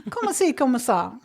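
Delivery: "Comme ci, comme ça" as "comma see comma sa"; mocking extra syllables. Mocking people who add syllables to "comme ci, comme ça". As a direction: stretch each "comme" into two syllables. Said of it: "putting way too many syllables in".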